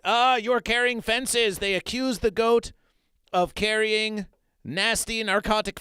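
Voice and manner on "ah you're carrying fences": accusing fish. Acted. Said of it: "The fish said".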